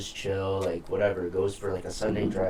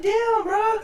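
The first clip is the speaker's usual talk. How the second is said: mock surprise; 5 dB louder than usual. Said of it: "I was like".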